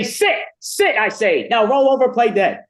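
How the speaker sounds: high-pitched comic commands; mock dog commands. Joke characters giving dog commands.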